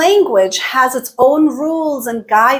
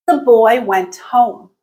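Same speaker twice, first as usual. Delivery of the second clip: slow example sentence, dipping on "home"; falling intonation; slower than usual. Shown as a demonstration. Teacher giving a statement example, pitch falling on "home". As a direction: let the pitch drop on "home" to close the statement. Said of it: "is a falling intonation".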